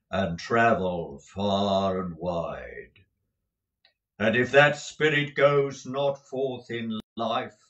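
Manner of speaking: a doomed spirit mourning his fate; mournful ghost. Acted. Marley's ghost explains his doom.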